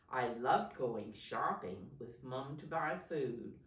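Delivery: put-on clear, projected story reading to children; picture-book narration. A narrator's reading. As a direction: read it out expressively, stressing key words. Reads picture book aloud.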